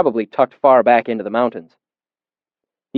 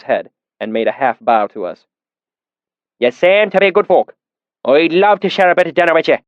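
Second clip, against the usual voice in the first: put-on deep valley accent; 5 semitones higher than usual. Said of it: "his accent so thick and oily".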